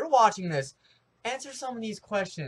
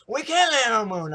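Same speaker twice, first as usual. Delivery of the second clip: mock; 5 semitones higher, 8 dB louder than usual. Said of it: "Uh-huh".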